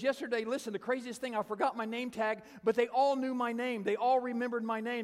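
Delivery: high, loud, emphatic marvelling; imitated high-pitched, mounting astonishment; amazed gushing. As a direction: gush as an overwhelmed woman. Retold lady gushes in amazement.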